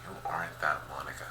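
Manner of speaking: low, hushed and gentle. A narrator's reading. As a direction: drop the voice right down to comfort her. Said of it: "lower my voice and speak to her softly".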